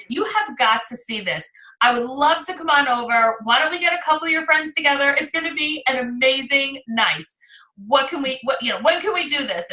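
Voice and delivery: a touch brighter, lively, eager to book; enthusiastic call. Shown as a demonstration. Consultant calling a past hostess, mildly excited and eager. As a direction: sell the excitement of the new jewelry. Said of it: "mirror that same enthusiasm back".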